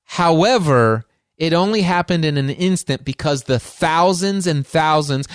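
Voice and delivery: ordinary talk, nothing marked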